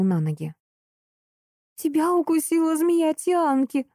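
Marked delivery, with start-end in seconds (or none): 1.7-3.9 high tearful sob-talk; sobbing. Acted. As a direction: blurt it through tears. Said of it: "всхлипнула Эурика". (всхлипывая)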